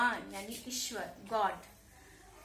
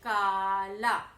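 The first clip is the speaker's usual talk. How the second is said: firm answer; 3 semitones lower, 5 dB louder, much slower than usual. Shown as a demonstration. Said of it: "तो क्या बनेगा?".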